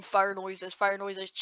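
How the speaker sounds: low, soft spoken effect; understated, low-pitched; deadpan sound effect. Pretend. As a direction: say it quietly in place of the real noise. Voices own sound effect deadpan.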